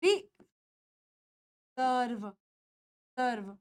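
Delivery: very slow, drawn-out रिजर्व ending on a v sound; रिजर्व stretched, the final र्व soft as v; model word. Shown as a demonstration. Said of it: "ये हो जाएगा रिजर्व".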